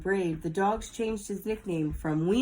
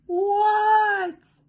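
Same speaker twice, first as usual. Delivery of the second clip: startled what; 12 semitones higher, 8 dB louder than usual. Acted. Froggy startled by teacher.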